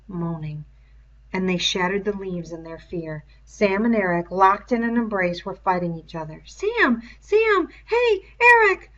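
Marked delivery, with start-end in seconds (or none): 6.4-8.9 high, rising louder calls, slow at the end; calling out. A narrator's reading. Boy calling the fighting twins, high loud calls. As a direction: call the boys apart.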